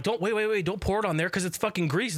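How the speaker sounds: mock-urgent plea to wait; retold urgent warning. Acting out urgent warning to dad.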